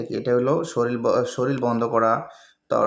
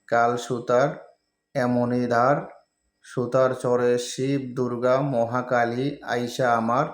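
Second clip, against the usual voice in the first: slow, measured recitation, phrase by phrase; mantra read aloud; slower than usual. Acted. Teacher reads a mantra out for viewers, slow recitation. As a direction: read out a written spell with pauses between phrases.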